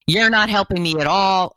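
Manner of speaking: angry client quote. Retold or imitated. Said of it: "He lost it".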